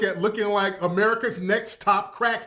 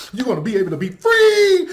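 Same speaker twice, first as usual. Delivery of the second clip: mock salesman; 5 dB louder than usual. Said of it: "He sells the motherland as".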